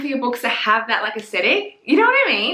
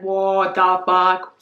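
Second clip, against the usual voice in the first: stunned disbelief; 3 semitones lower, much slower than usual. Retold or imitated. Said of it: "he's like".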